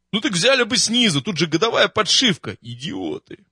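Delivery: резкий раздражённый упрёк, выше и громче; отчитай их с досадой; раздражённо. Acted. Раздражённый дембель ругает. (раздражённо, повышая голос)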